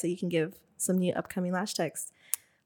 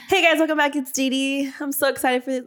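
louder, brighter podcast greeting; upbeat host intro; 4 semitones higher, 4 dB louder than usual. Shown as a demonstration. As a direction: bounce into the welcome. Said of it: "Oh, fuck. All right".

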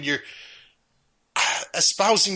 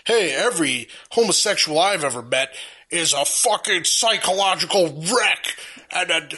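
mock bigot. Host mocks film's conservative character, a light dumb-bro voice. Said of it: "his conservative pal's like".

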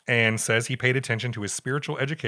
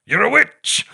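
much higher, louder hammed-up accusing shriek; mock accusation; 12 semitones higher, 11 dB louder, slower than usual. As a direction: ham up the horrified nun.

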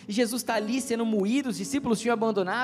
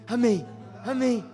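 slow, louder, drawn-out amens; moved amen; 4 dB louder, slower than usual. Retold or imitated. Teen with teary eyes answering the preacher, mild moved amen. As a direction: stretch each amém like a mildly choked-up teen.

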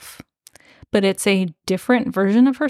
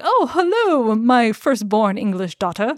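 lightly voiced eerie lord; creepy fairy lord; 2 semitones higher than usual. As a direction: greet her like an unsettling father. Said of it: "And he's like".

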